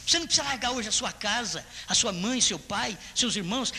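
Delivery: ordinary delivery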